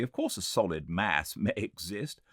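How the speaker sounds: lightly voiced argumentative guest. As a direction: drag out all real things. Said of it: "an argumentative person".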